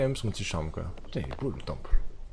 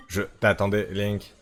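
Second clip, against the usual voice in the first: lightly voiced robot, even and steady; slower than usual. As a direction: read it like a game robot. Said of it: "je fais la voix de robot".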